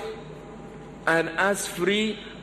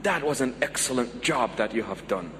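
low-pitched, sincere praise; gentle, lowered voice of appreciation; heartfelt; 7 semitones lower, 4 dB quieter than usual. Shown as a demonstration. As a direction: praise them from the bottom of your heart. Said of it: "mean it from the very bottom of your heart".

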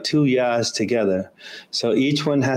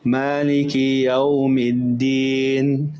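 slow careful recitation; slower than usual. Shown as a demonstration. Teacher reciting the verse slowly. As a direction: draw out Maliki Yawmiddin. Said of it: "recites the verse".

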